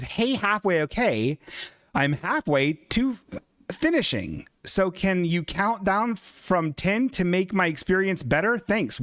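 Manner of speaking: slow, lightly voiced reading of a chat message; reading a fan's message. Host reading a viewer's donation message aloud, slow and lightly voiced. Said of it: "General Gao's Chicken says".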